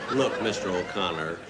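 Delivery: comic fake fury at the caller; angry. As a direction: tell him off, hammed-up indignation. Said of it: "I got real angry".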